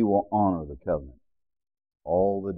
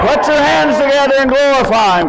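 high, loud preaching shouts; full-force praise; 12 dB louder than usual. Acted. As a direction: lift the whole room with shouts of hallelujah. Pastor whips up praise.

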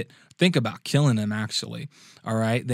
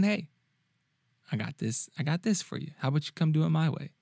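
gentle invitation; 4 semitones higher, 4 dB quieter than usual. Retold or imitated. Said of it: "Very nicely, very gentlemanly".

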